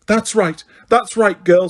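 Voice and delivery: high, sweet encouraging; coaxing Umbridge. A narrator's reading. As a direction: wheedle the answer out.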